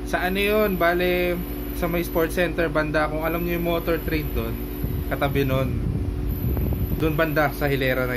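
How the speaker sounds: muffled behind cloth covering; speaking through fabric gaiter; through a face mask. Real, not acted. Seen 3: Fabric gaiter covers nose and mouth throughout; reference frames unmasked.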